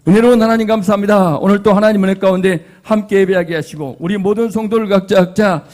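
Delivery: strong, projected public prayer; fervent closing prayer. Real, not acted. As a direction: pray aloud forcefully for the whole congregation. (힘차게 드리는 마침 기도)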